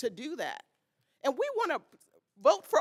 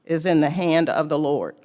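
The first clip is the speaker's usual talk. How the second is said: scripture reading; 8 semitones lower, 7 dB louder than usual. Real, not acted. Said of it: "And it says".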